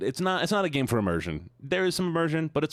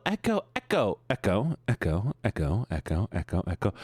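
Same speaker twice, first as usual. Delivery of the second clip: name bouncing away, dropping in pitch; fading echo. Pretend. Streamer greets viewer Echo like a canyon echo, playful fading echo.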